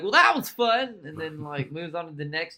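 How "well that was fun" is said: high, loud breezy quote; mock-enthusiastic, raised voice; mocking Tom Cruise. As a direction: toss it off with exaggerated cheer. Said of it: "He's like".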